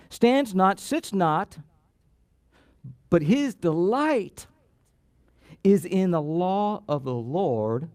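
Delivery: slow deliberate reading of the verse; measured reading that fades at the end; scripture reading. Real, not acted. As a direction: read it slowly, letting each phrase land.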